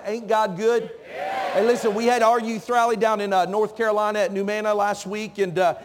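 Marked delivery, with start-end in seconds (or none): 0.0-0.9 Ain't God good called out louder, rising on good; louder repeat. Shown as a demonstration. Preacher repeats it louder to wake tired youth. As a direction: call it out to wake the room. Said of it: "Let me say that one more time".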